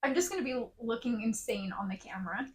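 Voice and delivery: unvoiced whisper. Real, not acted. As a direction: whisper it to yourself. Gnat in front of her.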